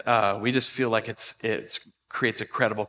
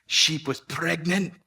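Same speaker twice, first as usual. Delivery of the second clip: stern farmer; 4 semitones higher, slower than usual. Retold or imitated. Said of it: "He's like".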